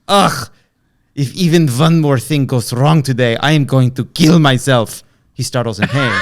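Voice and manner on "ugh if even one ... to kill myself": hammed-up German accent, a bit louder; a mild ranting Hitler in German accent; lightly put-on German accent; thick German accent. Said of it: "in a thick German accent".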